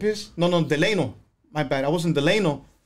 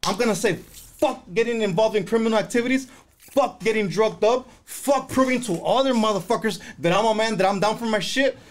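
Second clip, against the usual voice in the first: fired-up vow; 4 semitones higher than usual. Retold or imitated. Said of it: "I said".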